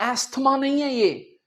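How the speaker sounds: अस्थमा with a sounded th, marked wrong; wrong pronunciation. Shown as a demonstration. Teacher rejecting the th sound in अस्थमा. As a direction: say अस्थमा with the t, to show the mistake. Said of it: "इसके दो उच्चारण हैं".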